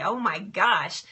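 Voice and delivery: ordinary talk, nothing marked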